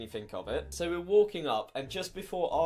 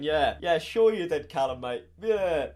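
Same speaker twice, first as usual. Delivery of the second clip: louder, mock agreement; sarcastic disbelief; 6 dB louder than usual. Doubting mate's excuse of morning work, sarcastic. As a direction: pretend to agree while doubting him.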